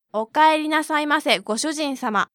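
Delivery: sweet, fast maid cafe greeting; maid style. Shown as a demonstration. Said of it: "maid style".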